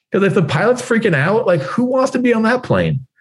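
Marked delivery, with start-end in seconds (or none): none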